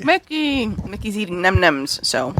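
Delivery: talking while munching chips; words around a mouthful of chips; crunching chips. Real, not acted. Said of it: "pardon the, uh, crunching".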